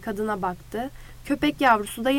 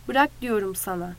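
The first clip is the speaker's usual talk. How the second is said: ordinary delivery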